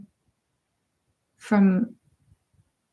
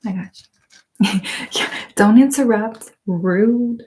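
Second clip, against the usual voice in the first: sassy cashier snapping back, a bit louder on the laugh; mock offended cashier; Bon Qui Qui attitude; 3 dB louder, slower than usual. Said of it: "I could play that character so well".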